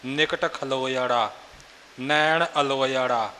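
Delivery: ਖਲੋਇੜਾ, ਅਲੋਇੜਾ with "loi" before the final "ṛa"; correct pronunciation. Shown as a demonstration. Teacher modelling the right way, ਖਲੋਇੜਾ, ਅਲੋਇੜਾ ending "loi-ṛa". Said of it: "ਇਹ ਇਸ ਦਾ ਉਚਾਰਨ ਦਾ ਤਰੀਕਾ ਹੈ".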